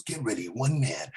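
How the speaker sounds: slow, low movie trailer announcer; slow, deep movie trailer voice. Retold or imitated. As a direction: growl it like a movie trailer narrator. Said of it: "he goes".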